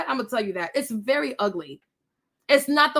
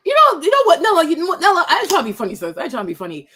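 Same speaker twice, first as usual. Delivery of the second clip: raised, higher, blunt delivery; loud sassy imitation; 4 semitones higher, 7 dB louder, faster than usual.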